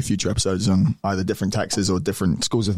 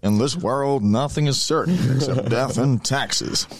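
put-on old-timey English accent; 4 semitones higher, slower than usual. Shown as a demonstration. Co-host redoes the Franklin quote in an old-timey English accent. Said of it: "would old-timey America just have English accents".

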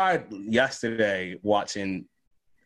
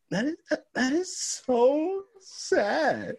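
much higher, very slow mock pity with a laugh; coworker's sad reaction; much slower than usual. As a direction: imitate the coworker's syrupy pity, stretched out. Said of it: "And she was like".

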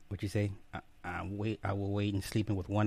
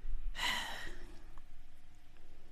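sigh; 9 dB quieter than usual. Real, not acted. Waiting for the fan.

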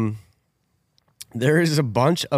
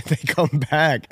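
nervous laugh; slower than usual. Real, not acted. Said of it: "I nervous laugh".

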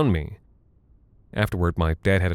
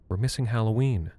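quiet crying; 2 semitones higher, 4 dB quieter than usual. Acted. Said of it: "My sister quietly crying".

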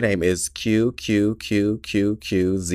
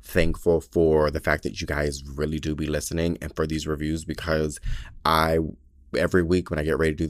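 sincere, jokes aside; 4 semitones lower than usual. Real, not acted. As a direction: drop the act and thank them sincerely. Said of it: "all jokes aside".

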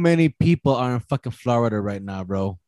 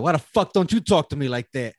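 mock complaint through laughter; laughing jab; 3 semitones higher than usual. Man laughingly asks his friend why she never talks so sweetly. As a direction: tease her while laughing. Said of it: "I looked over at Boo and I was like".

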